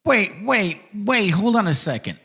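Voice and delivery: high-pitched disbelieving questioning; real incredulous challenge. Real, not acted. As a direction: halt everything, baffled by the claim. Stops video in disbelief at claim.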